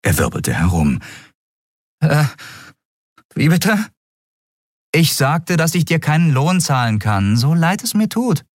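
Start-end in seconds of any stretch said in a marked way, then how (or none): 2.0-3.9 put-on high, stunned boy's voice; can't believe his ears; surprised boy. Miko stunned. 4.9-8.4 higher-voiced woman captain, apologetic; Captain Nagun telling Miko she can't pay.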